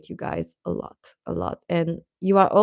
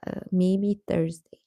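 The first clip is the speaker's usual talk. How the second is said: breathy whisper, thinking aloud; half to herself, whispering the day; whispered aside; 5 dB quieter than usual. Real, not acted. Whispering to viewers about the next live's day.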